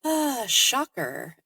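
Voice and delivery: dry mock surprise, slowed; sarcastic. Real, not acted. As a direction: drawl it out sarcastically. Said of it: "my sick brain".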